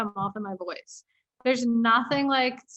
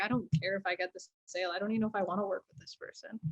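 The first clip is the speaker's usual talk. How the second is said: chilled out; 3 semitones lower, 8 dB quieter, faster than usual. Retold or imitated. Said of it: "chilled out and being like".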